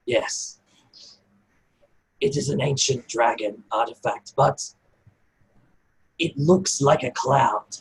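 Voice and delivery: hint of a wise goblin addressing the party; goblin Cass. DM voicing goblin Cass to the party, lightly voiced, measured.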